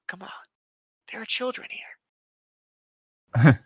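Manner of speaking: slow, high, prissy reproach; hammed-up pearl-clutching; mock prim scolding. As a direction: drag it out like a fussy chaperone. Mock scolding about swearing.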